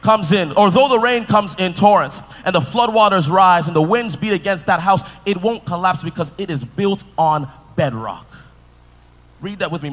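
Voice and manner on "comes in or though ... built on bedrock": reading aloud together. Shown as a demonstration. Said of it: "One, two, three, go".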